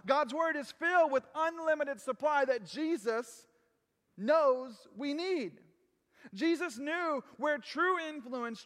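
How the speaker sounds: rising sermon build. Acted. Preaching builds.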